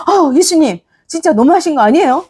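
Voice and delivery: a pretend huff at Jesus, hurried and high; mock angry complaint. Mary, refused by Jesus, protesting in a mock huff. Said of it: "막 화를 냈어요".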